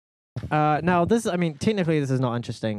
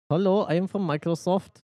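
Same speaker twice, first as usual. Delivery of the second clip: a weak, put-on Indian accent, pitched a little up; mock a scam caller in a poor Indian accent; bad Indian accent; 5 semitones higher than usual. Scam caller phoning his victim, in a poorly faked Indian accent. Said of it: "I can't do a good accent".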